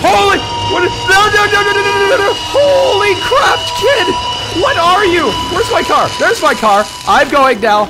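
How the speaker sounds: very high, loud terrified shouting; panicked screaming. Real, not acted. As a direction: scream as if chased. Chased by monster, panics.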